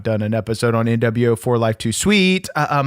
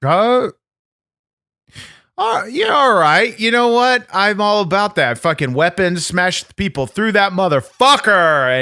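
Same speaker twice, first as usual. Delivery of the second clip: much higher, louder excited rant; hyped up; 8 semitones higher, 3 dB louder than usual. Acted. Champion getting hyped about smashing people through tables, high and loud. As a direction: fire yourself up about it.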